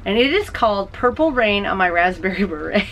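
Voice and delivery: giggles breaking through the name; laughing while saying the name. Real, not acted. Knitter reading a funny yarn name, laughing. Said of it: "I can't even say it without laughing".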